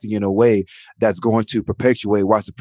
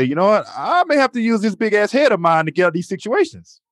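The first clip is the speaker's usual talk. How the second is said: self-talk in mirror; 10 semitones higher than usual. Retold or imitated. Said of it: "I'm gonna say".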